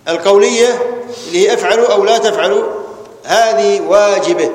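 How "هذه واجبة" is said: slow emphasis. Shown as a demonstration. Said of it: "teacher stressing the ruling".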